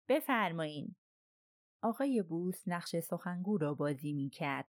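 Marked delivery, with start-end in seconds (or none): 0.1-0.9 lightly voiced thick-toned old princess; a hint of a thick, heavy voice. A narrator's reading. Princess answers the knock at her door, lightly thickened voice. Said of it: "صدای کلفت پرنسس به گوش رسید".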